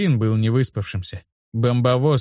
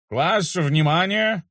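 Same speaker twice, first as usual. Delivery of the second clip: slow, raised classroom announcement; teacher announcing; 6 semitones higher, much slower than usual. Acted. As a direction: call the class to attention. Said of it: "объявил историк".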